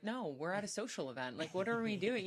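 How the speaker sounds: half-joking disbelief; lightly hammed-up objection; mock exasperated. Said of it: "I'm like".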